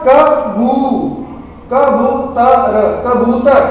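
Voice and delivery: कबूतर drawn out slowly, syllable by syllable; slow spelled-out word. Shown as a demonstration. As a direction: stretch कबूतर slowly for the class. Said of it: "ऊ दी मात्रा की बन जाएगा?". (कबूतर धीरे-धीरे खींचकर बोलना)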